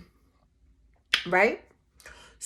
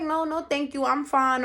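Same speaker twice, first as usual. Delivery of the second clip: light, higher and softer polite no; polite refusal; 4 semitones higher, 3 dB quieter than usual. Retold or imitated. Turning down co-workers' offers of help, polite refusal. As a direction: decline politely in a small voice.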